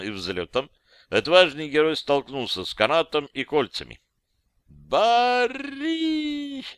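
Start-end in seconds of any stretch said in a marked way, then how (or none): 4.7-6.6 a high, desperate scream of the name; frantic high shriek for help; desperate cry. Acted. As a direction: yell the friend's name in sheer despair as you fly. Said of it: "истошный крик отчаяния".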